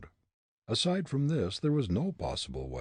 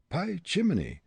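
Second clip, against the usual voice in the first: put-on high German-accented musing; German accent talking to himself; 10 semitones higher than usual. Fritz alone on the roof, in a German accent. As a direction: grumble at the storm in a thick German accent. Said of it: "he soliloquized".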